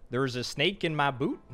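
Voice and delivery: lightly put-on Texan cowboy accent; a casual stab at a Texas accent. Shown as a demonstration. Streamer not trying hard at chat's requested Texas accent. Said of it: "Give me your best Texas accent".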